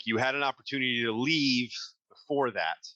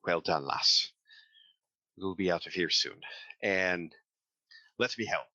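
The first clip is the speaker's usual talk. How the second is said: lightly voiced, slightly low, grateful reassurance; reassuring thanks; 4 semitones lower than usual. Bruegel thanks Dolores for finding it out, mildly reassuring. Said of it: "in, like, a reassuring thank you way".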